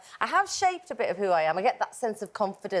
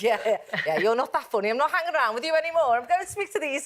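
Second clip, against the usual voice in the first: higher, quicker scornful brush-off; mock dismissive kid; 5 semitones higher than usual. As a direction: wave off the boring kid. Schoolkids rejecting an unfunny kid.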